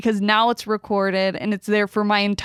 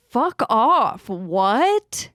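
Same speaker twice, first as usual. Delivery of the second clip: retold outburst; 3 semitones higher, much slower than usual. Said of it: "And I was like".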